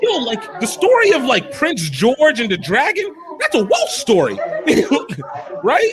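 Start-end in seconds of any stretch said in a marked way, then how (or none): 0.0-4.4 mock revelation. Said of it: "I'm like".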